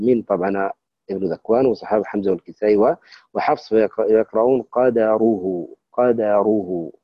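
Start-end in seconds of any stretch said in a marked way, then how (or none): 4.6-6.9 "قدروه" drawn out slowly, syllable by syllable; the careful teaching recitation of "قدروه"; slow demo reading. Shown as a demonstration. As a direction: model "قدروه" slowly, with a fatha on the dal. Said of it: "لماذا قلنا قاد".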